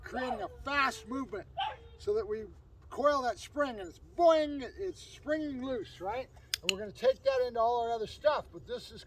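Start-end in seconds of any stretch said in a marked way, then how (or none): 4.2-4.6 drawn-out, louder sound-effect boing; springy boing. Shown as a demonstration. Trainer showing a coiled spring let loose, springy boing. Imitates a spring being released.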